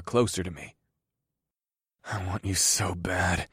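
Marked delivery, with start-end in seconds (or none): 2.0-3.5 snarled. Acted. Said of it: "I snarled".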